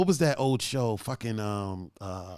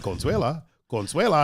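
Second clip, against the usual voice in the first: put-on Spanish-TV accent. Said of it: "he would talk to her like that".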